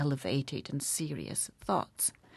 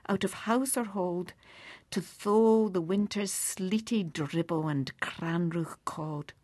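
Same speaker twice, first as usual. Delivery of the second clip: poem recitation; 3 semitones higher than usual. Acted. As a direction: let the last word fade to a whisper. Reciting To a Mouse.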